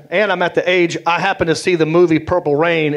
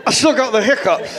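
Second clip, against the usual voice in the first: put-on kid voice; 5 semitones higher than usual. Kid self voiced laughing.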